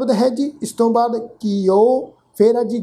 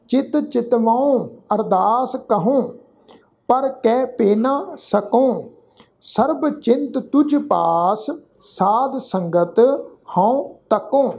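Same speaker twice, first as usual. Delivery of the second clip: slow, deliberate chanting recitation; scripture recitation; 2 semitones higher, slower than usual. Shown as a demonstration. Teacher recites Gurbani slowly to students. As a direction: lay out every syllable carefully.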